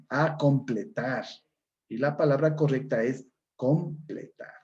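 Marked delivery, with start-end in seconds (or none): 0.1-1.2 slow demonstration. Shown as a demonstration. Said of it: "Palabra con prótesis".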